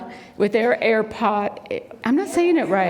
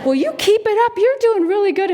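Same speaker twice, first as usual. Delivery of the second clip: high, loud cheering-on; retold pep talk to a little kid; encouraging a toddler; 11 semitones higher, 5 dB louder, faster than usual. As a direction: cheer on a small child, pitched way up. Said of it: "I said".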